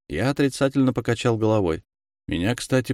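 ordinary delivery, nothing marked

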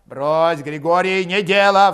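loud, firm protest; urgent intervention. A narrator's reading. Koshevoy pulling Grigory off Valet, urgently protesting. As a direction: step in to stop a fight. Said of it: "вступился Кошевой".

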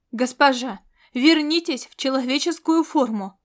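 loud barked command at the runaway; barked order. Acted. Kovdori barking at the cat to turn human, loud. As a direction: bark it to stop her. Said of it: "рявкнул он".

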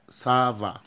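سافا with a light s and v, not صفاء; سافا with a thin S and V; French ça va. Shown as a demonstration. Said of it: "مش صفاء".

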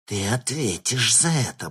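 a touch of a hiss; hissed threat. A narrator's reading. Slapped shapeshifter threatening the thug, hissing. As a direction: spit the threat back. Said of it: "прошипела она".

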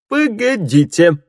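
high, loud, slow stern call. Acted. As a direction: order them to stop, sternly. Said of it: "строго заметил хорошо знакомый женский голос".

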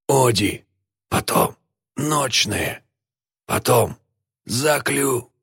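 high, soft, strangled fragments; gasped-out syllables. A narrator's reading. Helpless bound man struggles to answer, gasping high and faint. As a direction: squeeze out broken syllables on little air. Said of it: "У него не было сил ответить".

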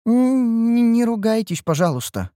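high, stammering little plea; meek high voice, softening at the end; timid pleading. A narrator's reading. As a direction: stumble shyly into a modest request. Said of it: "скромно попыталась унять спор".

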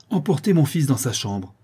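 commanding. Acted. Countess orders servant.

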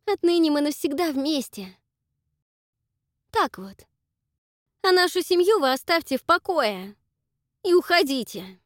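high, loud and hard, sending them off; a loud, icy dismissal; cold angry order. Acted. Dakota drives the family away.

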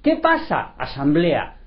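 más alto y fuerte, arrebatado; excited argument. Real, not acted. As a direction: exclama con pasión su razonamiento. Discusión animada, defendiendo su postura. (argumento exaltado y alto)

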